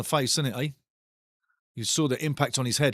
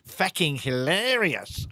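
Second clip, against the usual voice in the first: drawn-out chat read; slower than usual. Acted. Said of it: "Francois says".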